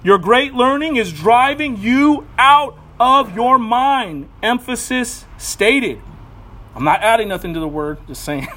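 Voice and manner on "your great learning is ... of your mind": a booming shout across the courtroom, slowed; loud accusation. Acted. Festus bellows at Paul in court, loud and slow. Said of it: "said with a loud voice".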